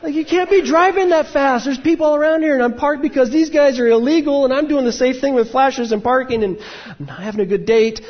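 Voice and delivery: high, loud ranting tirade; heated rant. Retold or imitated. Ranting at the speeding driver on a bad date, loud and high. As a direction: vent every grievance at once, loud and high.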